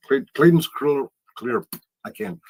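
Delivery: slurred numb-mouthed speech; numb mouth after dentist. Real, not acted. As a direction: talk through a mouth numbed by dental work. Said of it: "I had dental work today and I can't talk ever since".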